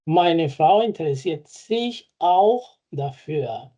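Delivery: slow, careful German example; deliberate teacher pace; slow model sentence. Shown as a demonstration. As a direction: read it slowly for learners. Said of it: "Mi mujer se interesa".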